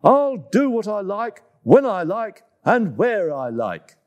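high, cheeky defiance; defiant. Acted. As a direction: taunt it like a naughty monkey. Monkey defies elephant.

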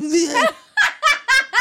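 high, loud burst of laughter. Real, not acted. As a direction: crack up at yourself. Laughs after saying start crying.

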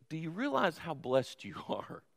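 dropped soft, a chuckle inside the words; hushed wonder. Real, not acted. Preacher quietly asking his congregation, soft with a laugh. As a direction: lean in and ask it quietly, almost laughing.

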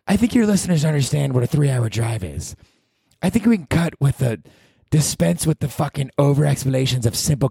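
high, sneering inner critic; mock him with contempt; nasty heckler voice. His mean alter ego telling off the podcast host, high and sneering.

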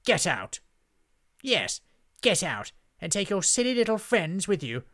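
loud, high dismissive orders; commanding witch. A narrator's reading. Witch throws the friends out, loud haughty command. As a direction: banish them with haughty force. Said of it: "instructed Hazel".

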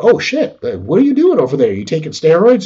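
playfully incredulous accusation; astonished. Acted. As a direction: act out stunned rivals questioning you. Acted rivals stunned at park.

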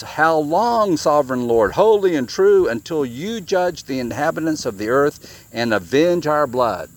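a touch of a loud plea; calling out loudly. Acted. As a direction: call out an appeal for justice. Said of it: "They called out in a loud voice".

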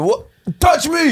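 high mocking character shout; voiced clit character. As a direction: play a cheeky little creature yelling up.

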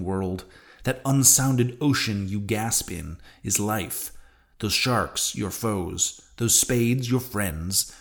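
put-on measured audiobook reading of an old sea novel; story narration. A narrator's reading. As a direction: read it out like a literary narrator. Reads a novel aloud.

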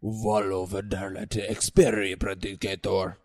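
grand, solemn incantation; priestess reciting. Acted. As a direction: intone it like a ritual. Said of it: "says Hera".

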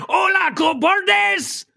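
laughing mock Mexican accent shout. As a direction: yell it like a cartoon Mexican bandit. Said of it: "talk in a Mexican accent".

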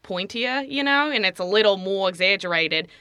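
Australian accent, a little pointy. Shown as a demonstration. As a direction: explain it in a stretched-out Australian. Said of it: "I guess I'll do it in Australian".

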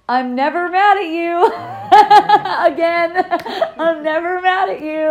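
called out high and loud, laughing; hollered. Retold or imitated. Calling out to the scared daughter from inside, hollering. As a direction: shout it from inside the house, amused. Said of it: "I just hollered from inside the house".

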